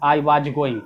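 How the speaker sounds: "was" said like "baaj", ending in a j; mispronounced "was". Shown as a demonstration. Teacher quoting some people's error, "was" ending in a j sound. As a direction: say "was" as vaaj or baaj, long "aa". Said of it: "कुछ लोग तो बाज भी बोल देते".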